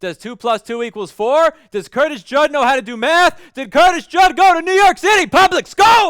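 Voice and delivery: shouting. Testing a microphone by talking about two plus two: yelling. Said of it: "we're gonna yell a little bit".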